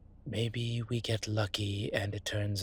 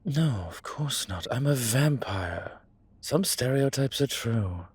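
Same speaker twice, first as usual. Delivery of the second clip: higher, slow, emphatic protest; emphatic, stating the obvious; 4 semitones higher, 5 dB louder than usual. Acted. Vampire explaining daytime sleep to an accomplice, stating the obvious. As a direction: spell it out as if it were obvious.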